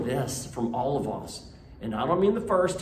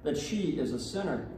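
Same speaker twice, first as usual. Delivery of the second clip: solemn, measured liturgical reading; Gospel reading. Acted. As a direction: proclaim the Gospel to the congregation. Priest reads the Gospel aloud.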